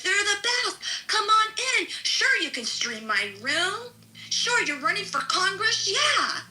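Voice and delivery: high, bright fake-friendly gush; mock gushing welcome. Mocking a rival's fake welcome, high fake gush. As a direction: gush insincerely like a fake host. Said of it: "and you're like".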